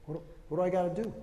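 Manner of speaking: fast eager question; hurried keen volunteer. Acted. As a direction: rush to ask what's next.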